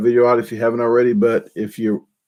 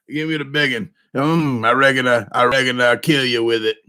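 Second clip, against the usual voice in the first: Sling Blade voice. Shown as a demonstration. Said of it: "Sling Blade".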